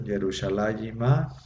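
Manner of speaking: Yerushalayimá slow, final a lengthened; teacher models Yerushalayimá; slow Hebrew pronunciation. Shown as a demonstration. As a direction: draw out Yerushalayimá to the added a. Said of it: "nomás le agregan la A".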